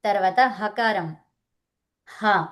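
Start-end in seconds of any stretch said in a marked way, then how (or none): 2.1-2.5 హ breathed out from the throat; isolated, open హ from the throat; throaty ha. Shown as a demonstration. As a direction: sound out హ from deep in the throat. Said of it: "కంఠం నుంచి వస్తది".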